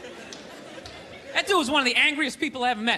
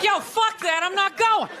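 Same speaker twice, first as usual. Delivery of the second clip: higher, laughing no-way dismissal; flat refusal; 6 semitones higher than usual. Retold or imitated. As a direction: brush it off, not a chance. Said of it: "you'd be like".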